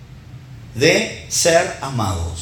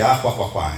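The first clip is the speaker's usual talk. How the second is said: mock laugh; 3 semitones lower than usual. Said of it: "Yo soy uno de los que".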